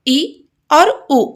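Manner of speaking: ई और उ stretched slowly; drawn-out vowels. Shown as a demonstration. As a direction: draw out each short vowel for pupils. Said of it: "कौन कौन से?". (स्वरों को धीरे खींचकर बोलें)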